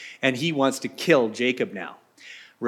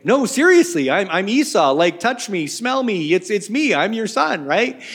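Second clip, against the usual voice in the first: pleading Jacob; 5 semitones higher than usual. Acted. Jacob insisting to blind Isaac, higher pleading. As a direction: beg your blind father to believe you. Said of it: "Isaac's going".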